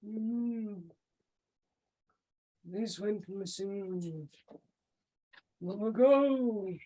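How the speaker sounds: put-on slow, grave old priest; measured and solemn. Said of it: "he says".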